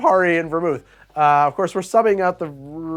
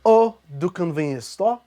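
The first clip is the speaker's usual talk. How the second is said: lightly put-on fancy sommelier accent, louder; a hint of a pompous wine snob accent; vague posh accent; 3 semitones higher, 5 dB louder than usual. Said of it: "I don't know what that accent is supposed to be".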